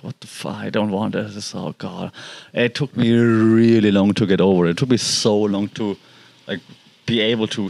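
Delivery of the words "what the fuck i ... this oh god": quiet despair. Retold or imitated. Grieving the dead cat.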